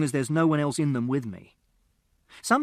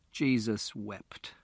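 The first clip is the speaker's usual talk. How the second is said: weary sigh; 4 semitones lower, 5 dB quieter, much slower than usual. A narrator's reading. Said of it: "put his head in his hands".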